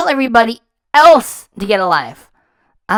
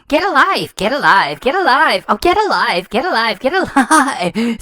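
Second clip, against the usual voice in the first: mocking repetition. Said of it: "That little insult of yours".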